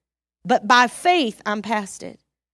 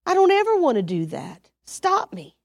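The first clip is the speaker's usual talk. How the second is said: quick urgent prayer, higher; rushed pleading prayer; 7 semitones higher than usual. Shown as a demonstration. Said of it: "So I'll say".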